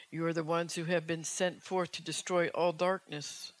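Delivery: prophetic declaration. Acted. Preaching a prophetic word.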